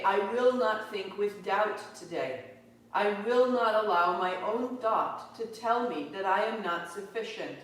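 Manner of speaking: firm affirmation with forceful stresses; strong resolve. Acted. Teacher modelling self-belief for the class, strong and resolute. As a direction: declare it as a steady, strong boundary. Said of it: "This is how we make that line strong".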